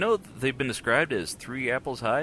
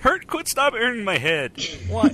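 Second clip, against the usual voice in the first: louder, higher mock-pained protest; exasperated outcry; 11 semitones higher, 6 dB louder than usual. Real, not acted. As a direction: beg them to stop, half laughing. Reacting to Smurfs 2 news.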